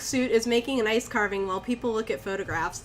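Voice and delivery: even first-person storytelling; story narration. A narrator's reading. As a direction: read it out as an eerie anecdote. Reads the story aloud.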